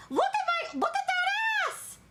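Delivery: very high-pitched shriek of amazement; shrill delighted holler; excited squeal. Real, not acted. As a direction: squeal it high, stretching the end. Shrieking at own squeezed figure.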